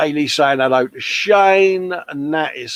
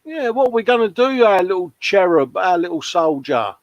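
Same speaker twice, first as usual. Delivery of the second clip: a higher, cooing mock pity for a poor little cherub; mock baby talk; 7 semitones higher than usual. Teasing a mate about going back to work, in higher cooing baby talk. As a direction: coo over him like a sulking toddler.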